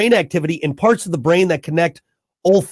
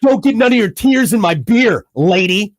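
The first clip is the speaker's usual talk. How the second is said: mock macho husband. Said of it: "I say".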